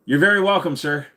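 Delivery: lightly voiced Indian accent thank-you; mock Indian accent. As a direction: slip briefly back into the scammer accent. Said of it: "the only way I can do that voice right now".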